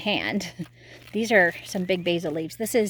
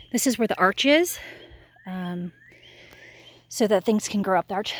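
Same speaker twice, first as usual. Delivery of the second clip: winded after a long walk, out of breath. Real, not acted. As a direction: talk while catching your breath. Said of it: "Sorry that I'm out of breath".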